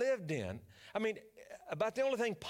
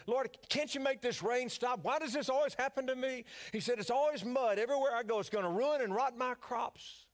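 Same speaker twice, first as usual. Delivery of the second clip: higher, whiny griping farmer; a whiny Cajun farmer griping to the Lord, pitched higher; complaining whine; 5 semitones higher than usual. Retold or imitated. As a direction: moan to the Lord about the rain. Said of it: "And Boudreaux would complain".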